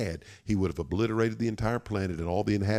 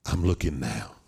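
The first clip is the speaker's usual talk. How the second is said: lightly acted father, voice lowered; low reassurance; 7 semitones lower than usual. God reassures his son, first take.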